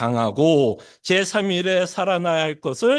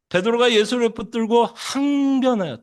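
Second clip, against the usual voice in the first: ordinary delivery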